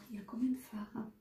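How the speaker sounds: a private whispered wondering, not for the viewers; whispered question. Real, not acted. Vlogger whispering to herself, counting the shadows. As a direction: whisper it to yourself, unvoiced and hushed.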